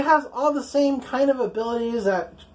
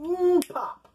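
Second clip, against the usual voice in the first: imitated head pop; 7 semitones higher than usual. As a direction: mimic a head bursting with "mm, pop". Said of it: "looks like Jean went".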